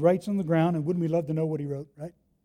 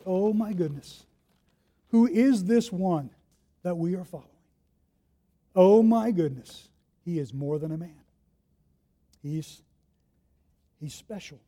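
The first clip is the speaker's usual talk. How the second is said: awed wonder. Acted. Peter's awed inner thoughts.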